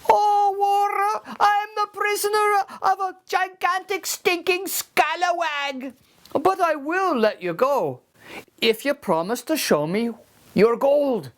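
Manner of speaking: high, cagey little voice; sly leprechaun. Acted. Leprechaun denies his gold to Seamus in a high sly voice. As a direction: play innocent, high and quick.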